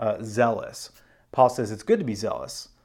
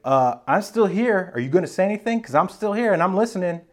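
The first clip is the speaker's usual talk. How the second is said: high-pitched, awkward nudge for a reply; impatient prompting; 7 semitones higher, 3 dB louder than usual. Retold or imitated. Abraham waits on God's answer, impatient prompting. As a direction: prod someone who stays silent. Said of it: "And Abraham's like".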